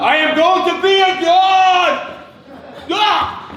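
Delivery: loud, high villain crowing to the sky; triumphant villain shout. Acted. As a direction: bellow it like a mad god-to-be.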